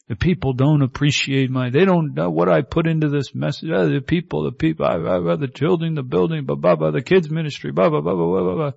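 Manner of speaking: lightly voiced complaining pastor, grumbling; grumpy pastor. Pastor venting to a visitor, mildly whiny grumbling. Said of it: "a grumpy pastor".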